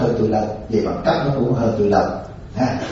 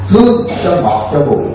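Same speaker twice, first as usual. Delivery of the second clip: higher, gently sweetened proverb; sweet version for the old; 5 semitones higher, 4 dB louder than usual. Shown as a demonstration. Monk showing how to speak sweetly to old ladies. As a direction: soften "ngọt" as if coaxing an elder. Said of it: "Đối với cụ, cụ già".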